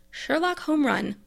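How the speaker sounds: slow, showy title announcement; announcer voice. Acted. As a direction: present "Sherlock Home Run" like a show announcer, slowly. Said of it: "describes the show this way".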